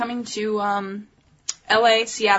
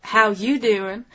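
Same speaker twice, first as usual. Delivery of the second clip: slow Southern drawl; Southern greeting; much slower than usual. Retold or imitated. Host quoting the actress's greeting, Southern drawl. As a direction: stretch it out with a Southern twang. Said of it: "She actually says".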